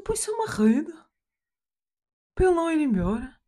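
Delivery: hammed-up German father's Portuguese; father's foreign accent. Daughter questioning dad about dolphins, father's foreign accent. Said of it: "E ele não fala assim".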